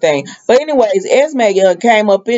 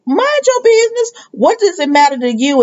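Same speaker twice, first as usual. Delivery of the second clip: mock snippy retort; 10 semitones higher than usual. Trina snapping back.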